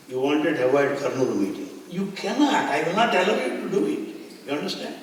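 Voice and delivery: a playful warning through laughter; laughing mock challenge. Baba teasing him that he cannot skip the meeting, laughing.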